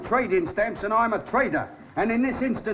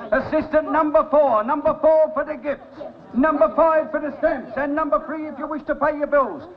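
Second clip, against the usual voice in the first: calling out to the shop; 3 semitones higher than usual. Acted. Shopkeeper directing crowd of customers.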